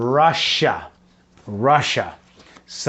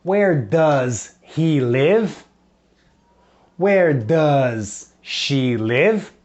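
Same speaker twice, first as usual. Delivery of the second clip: slow model question; 2 semitones higher than usual. Shown as a demonstration. Teacher models questions slowly for children to repeat. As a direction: lean on where, slow and clear for repeating.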